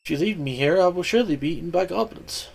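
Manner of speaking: small voice, softly begging; trapped mouse pleading with Kid. Acted. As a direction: plead for your life, little mouse. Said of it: "stared pleadingly".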